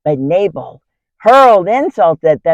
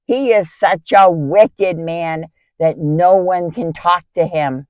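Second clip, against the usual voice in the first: urgent, higher-pitched report of bad news; alarmed shepherd; 4 semitones higher, 4 dB louder than usual. Shepherd brings his master's wife news of looming disaster, alarmed. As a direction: voice an agitated servant pleading for action. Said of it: "came running to me with alarming news".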